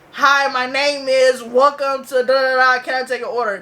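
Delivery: lightly voiced manager reciting a script; imitated manager's greeting. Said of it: "He'd be like, be like".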